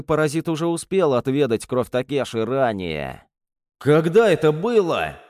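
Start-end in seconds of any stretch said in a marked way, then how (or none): 3.8-5.2 loud, high panicked yell; panicked shout. Acted. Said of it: "заорал я в панике".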